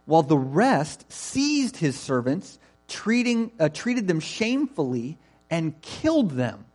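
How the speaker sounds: measured, emphatic Bible reading; scripture reading. Acted. Preacher reads the parable to the congregation, measured and emphatic.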